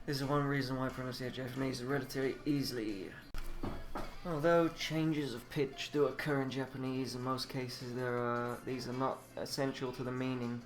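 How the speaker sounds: measured, even read-aloud delivery. Acted. Reading a Japanese pronunciation guide aloud, measured. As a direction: read it out evenly, like printed notes. Reads textbook and translators' note.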